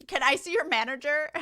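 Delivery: entitled customer demanding the manager; be the pushy Karen at the counter; mock Karen asking for the manager. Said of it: "I was gonna go with Karen".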